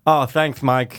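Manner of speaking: dry mock thanks; sarcastic. Real, not acted. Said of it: "No, I'm just".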